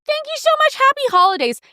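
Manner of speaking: put-on high sweet old shop lady voice; old saleslady. An old saleswoman thanking rich customers, high and sweet. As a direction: chirp it like a tired old clerk. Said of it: "She's like".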